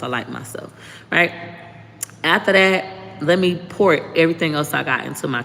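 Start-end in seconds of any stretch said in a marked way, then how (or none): 0.0-0.7 fading affirmation. Shown as a demonstration. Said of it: "writing something that I like about myself".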